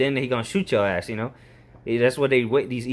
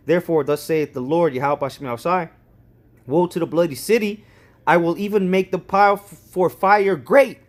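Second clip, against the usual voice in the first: proclaiming, louder, slowing hard at the end; scripture reading; 3 semitones higher, 5 dB louder than usual. Shown as a demonstration. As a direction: declaim it like a prophet's warning. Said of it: "reads scripture aloud, proclaiming".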